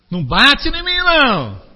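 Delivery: high, loud put-on whine; mocking victim. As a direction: overplay the wounded victim. Mocks the offended person. (imitando alto e agudo quem se faz de vítima)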